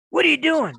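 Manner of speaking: a surprised wife catching him packing; imitating wife's surprise. Wife catching him packing his gear, startled and loud.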